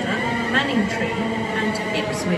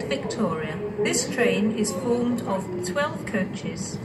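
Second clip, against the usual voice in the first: over the station tannoy; echoing platform PA voice; train station announcement. Real, not acted.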